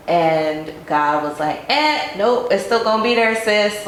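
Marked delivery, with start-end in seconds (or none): 1.7-3.9 higher, buzzer-like no to a friend; sassy refusal. Retold or imitated. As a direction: playfully voice God vetoing an escape. God voiced as refusing her escape.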